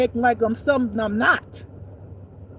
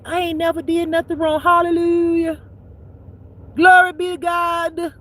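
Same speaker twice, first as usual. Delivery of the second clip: mock pious saint; 5 semitones higher than usual. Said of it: "acting like they so kind and sweet".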